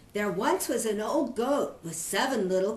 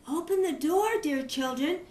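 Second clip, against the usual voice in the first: sweet soft wolf; 5 semitones higher than usual. Acted. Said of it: "he called in his sweet, soft voice".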